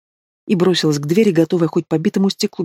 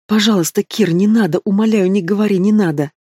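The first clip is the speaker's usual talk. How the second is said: desperate pleading; 4 semitones higher than usual. Acted. Begging him to stop.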